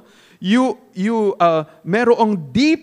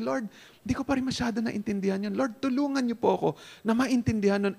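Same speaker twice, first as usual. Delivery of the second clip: soft, hurried plea to God; pleading prayer; 7 dB quieter than usual. Acted. Confused believer back in the seat asking God, soft pleading. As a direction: pray it quietly, asking for help. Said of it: "cry out to God and say".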